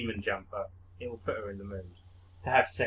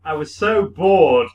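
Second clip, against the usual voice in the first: bored character voice; 4 semitones higher, 9 dB louder than usual. Acted. Voicing bored game character.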